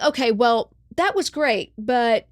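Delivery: high, sweetly dismissive praise; polite director. Retold or imitated. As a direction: praise it, then hold back. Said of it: "and he's like".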